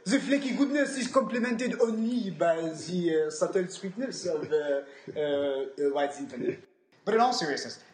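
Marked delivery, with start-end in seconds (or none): 0.0-6.6 sommelier voice. Pretend. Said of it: "sommelier voice".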